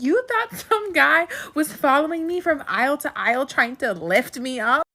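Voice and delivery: incredulous, imitating mom losing it. Mom realizes son thought she was being lifted, losing it. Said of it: "and she lost it".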